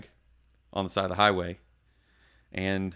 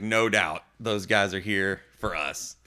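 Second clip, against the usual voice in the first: usual speaking voice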